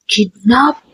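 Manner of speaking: plain reading voice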